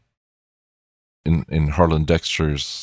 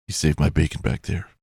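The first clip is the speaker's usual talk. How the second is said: noir detective. Shown as a demonstration. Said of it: "That's my detective voice".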